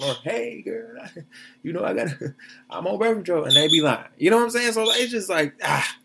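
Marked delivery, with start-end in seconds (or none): 0.2-3.4 put-on higher, softer girlish little lie; mock woman's voice. Host imitating a woman who claims she's on birth control, lightly mocking. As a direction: play the woman fibbing sweetly, half laughing.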